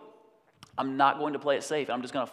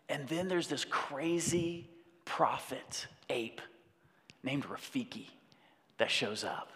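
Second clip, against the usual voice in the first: hushed; 5 dB quieter, slower than usual. Real, not acted. Hushed dramatic aside.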